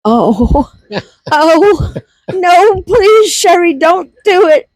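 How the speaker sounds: breaking into giggles mid-plea; laughing. Retold or imitated. Mom at the drive-thru, laughing as she begs herself not to. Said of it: "I'm gonna bust out laughing".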